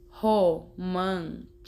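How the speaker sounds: "romântica" slowly split into four syllables. Shown as a demonstration. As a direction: count out "romântica" piece by piece. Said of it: "Contou as sílabas daquela forma".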